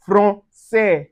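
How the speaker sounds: "français" slowly as fron-seh; soft S in "français", syllables apart. Shown as a demonstration. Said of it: "Ensures a soft S sound".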